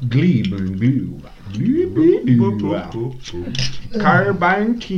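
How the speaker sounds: slow drawn-out alien gibberish. Pretend. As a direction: stretch out strange alien words. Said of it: "You know what alien would say?".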